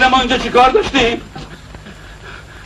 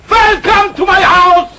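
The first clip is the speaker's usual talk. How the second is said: mock host greeting; 6 semitones higher, much slower than usual. Mocking welcome, repeated.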